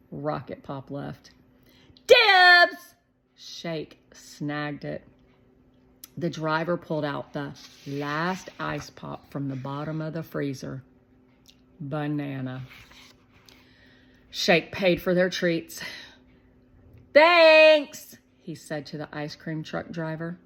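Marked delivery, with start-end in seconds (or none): 2.1-2.9 high, loud excited cry; excited call. A narrator's reading. Shake hearing the ice cream truck, loud excited call. Shake grabbing last pop. 17.1-18.2 put-on high, loud and fast kid excitement; excited little boy. A narrator's reading. Shake telling Shermie about the ice cream money, excited.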